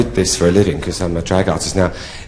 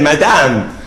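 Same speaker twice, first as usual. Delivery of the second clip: put-on French accent; 5 semitones higher than usual. French count addressing the prostitute, in a French accent. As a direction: call out in mock French. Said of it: "he said to me in a French accent".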